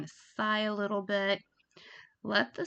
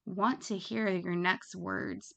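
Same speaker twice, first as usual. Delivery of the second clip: slower; slower than usual. Shown as a demonstration. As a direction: make them hang on every word. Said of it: "talk a little bit slower, kind of like this".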